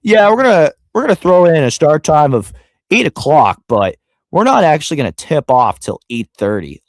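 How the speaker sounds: high, loud mock league voice dismissing the start time; mocking the NBA. Mocking the NBA over late tip-offs, in a hammed-up high voice. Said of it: "where they're like".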